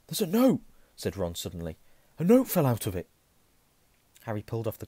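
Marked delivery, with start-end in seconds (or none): 0.1-0.6 high, loud sudden notice. Acted. Ron notices note suddenly. 2.2-3.1 excited. Acted. Ron notices note suddenly.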